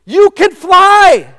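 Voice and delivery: loud, drawn-out declaration; slow loud proclamation. Real, not acted. Preacher telling the congregation they can fly, loud and slow. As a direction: declare it to everyone.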